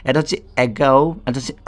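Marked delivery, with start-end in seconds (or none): 0.6-1.0 "অ্যাগো"-র শুরুতে অ্যা, শেষে টানা ও; উচ্চারণের নমুনা. Shown as a demonstration. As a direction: say "অ্যাগো" carefully as a teacher's model. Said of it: "কতভাবে উচ্চারিত হচ্ছে". ("অ্যাগো" স্পষ্ট করে উচ্চারণ)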